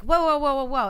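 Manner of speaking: high, loud retold protest; mock alarmed placating. Host acts Bray interrupting the boss's threat, mock alarm. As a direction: cut in to calm a pretend boss. Acted reply calming angry boss.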